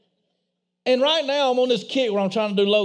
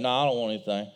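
put-on little boy's voice; 10 semitones lower, 5 dB quieter, much faster than usual. Boy voiced, small and low.

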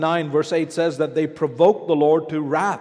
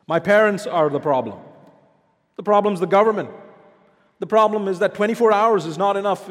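complaining congregant; 3 semitones higher, 5 dB louder than usual. Retold or imitated. Congregant voiced listing excuses.

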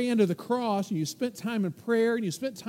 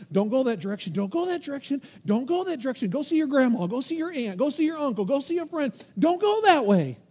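louder, pleading warning; conscience yelling; 3 semitones higher, 4 dB louder than usual. Acted. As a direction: urge them away, loud and insistent. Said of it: "Your conscience is yelling the whole time".

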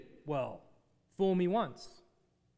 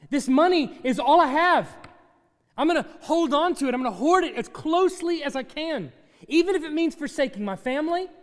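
hoarder's creed; 3 semitones higher, 6 dB louder than usual. Acted.

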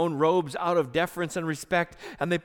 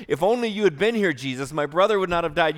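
grieving sister; 5 dB louder, faster than usual. Acted. Grieving sister reproaches Jesus.

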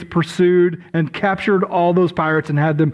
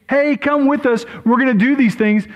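pirate shout; 5 semitones higher than usual. Pretend. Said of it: "they shouted out to you".

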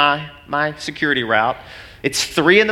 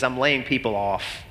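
softer, lower grave announcement; somber news; 4 semitones lower, 6 dB quieter than usual. Retold or imitated. Boss telling pastor about layoffs, soft and somber. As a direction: break the bad news gently.

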